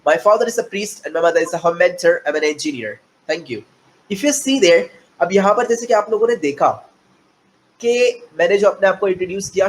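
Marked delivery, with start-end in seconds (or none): 0.0-3.6 slow, measured self introduction; slow model introduction. Shown as a demonstration. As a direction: present yourself slowly to an interview panel. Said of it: "Let me introduce you myself".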